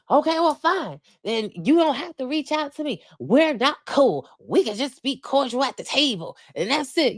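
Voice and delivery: high, huffy mock snap; imitating upset Sutton. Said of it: "Sutton gets upset".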